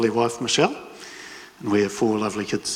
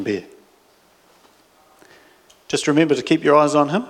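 calm pilot speaking over the cabin intercom; airline pilot announcement. Acted. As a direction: welcome the passengers aboard like a pilot. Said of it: "First Officer John O'Pound speaking".

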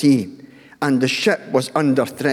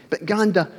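grandson's voice; 6 semitones higher than usual. Retold or imitated. Grandson voiced in family story.

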